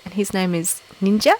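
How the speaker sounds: South African accent at an ordinary pitch; matter-of-fact South African accent. Shown as a demonstration. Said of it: "very best South African accent".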